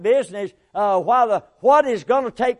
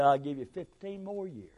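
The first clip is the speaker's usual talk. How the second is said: unvoiced, hushed answer from God; quiet whisper of God granting more years; 5 semitones lower, 10 dB quieter than usual. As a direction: let God murmur the gift softly.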